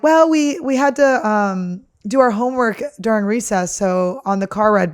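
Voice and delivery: imitating kids. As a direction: mimic the whiny audition kids. Kids at audition quoted.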